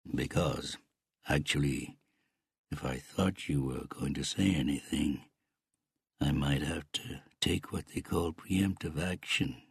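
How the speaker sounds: lightly voiced uncle, halting and restrained; menacing Canadian uncle. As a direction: threaten with deliberate pauses, understated.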